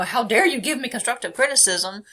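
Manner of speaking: hammed-up how-dare-you; mock indignant. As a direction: play the BPD side taking offence. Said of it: "while she's going off going".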